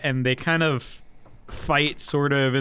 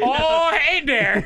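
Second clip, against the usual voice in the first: put-on laughing Minnesota accent; 11 semitones higher, 4 dB louder, slower than usual.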